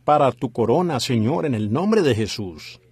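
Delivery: earnest spoken prayer, steady and fervent. Acted. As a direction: pray over the church with conviction. Prays aloud for congregation.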